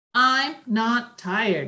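proud, pleased tone. A child coming out of her bedroom after skipping her nap, proud. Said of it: "she said proudly".

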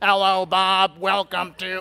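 robotic, flat, slow reading with no inflection. Showing someone how they want the text read aloud, robotic reading, no inflection. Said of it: "Read it like a robot".

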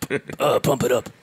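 loud, booming comic-book superhero voice. Joking about another speaker playing Batman on a podcast: Batman voice. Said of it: "that was my impression of Batman as you".

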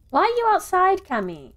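demanding, very high pitch. Uncle Peter speaks to Cammy, demanding. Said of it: "Uncle Peter demanded with a shake of his head".

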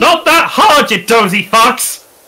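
loud high-pitched yelling. Saying that respecting boundaries is not hard: yelling. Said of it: "I feel like you're yelling at your neighbor now".

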